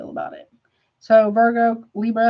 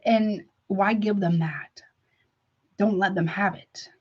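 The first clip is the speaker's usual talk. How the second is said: whispered, slowed aside; slower than usual. Real, not acted. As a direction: breathe it as a hushed question. Advice not to feed manipulators.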